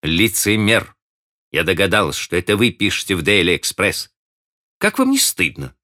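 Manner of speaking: teasing accusation. A narrator's reading. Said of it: "быстро сказала".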